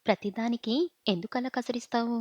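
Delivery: whispered tearful complaint; crying. Acted. Wife hurt by husband's scolding, tearful whisper. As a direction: breathe it out through tears. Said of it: "అని ఏడుస్తూ అన్నాను".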